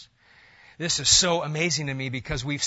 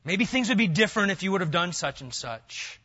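blaming excuse; 4 dB louder than usual. Retold or imitated. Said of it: "We don't say things like".

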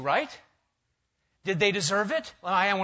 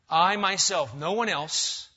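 "I myself" hit louder, then "no one else"; emphatic; 2 semitones higher, 5 dB louder, slower than usual. Acted. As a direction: punch "I myself" with firm emphasis. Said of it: "it's very emphatic".

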